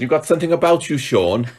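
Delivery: high, laughing salesman flattery; co-host mocks the boss's flattery of Sean, laughing; laughing mock pep talk. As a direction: gush at Sean like a smooth salesman while laughing. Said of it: "He says".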